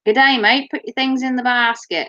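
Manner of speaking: lightly imitated brisk Australian; mock Australian checkout machine; brisk Australian accent. Machine tells shopper to use basket, brisk Australian. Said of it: "very brisk Australian accent".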